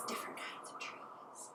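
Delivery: soft whisper. Shown as a demonstration. Teacher listing trees for kids, whispering. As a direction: drop to a hush.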